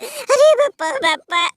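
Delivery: hammed-up sobbing complaint, dragging the words; mock wailing lament. Losing team fan wails to his brother, hammed-up sobbing. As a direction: wail like a beaten team begging for pity.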